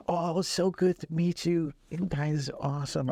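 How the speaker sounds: light, high, gentle voice imitating a famous singer; a hint of a gentle soft-spoken star. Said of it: "very soft-spoken man".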